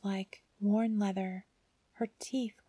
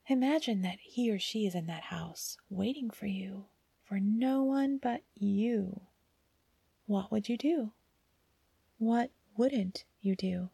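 whispered, coaxing; hushed tempting aside. A narrator's reading.

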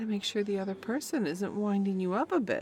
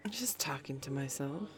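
innocent hushed whisper; 2 semitones lower, 6 dB quieter than usual. Acted. Dismissing her friend's question in a coy whisper. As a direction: brush it off in a whisper. Covering a muttered slip.

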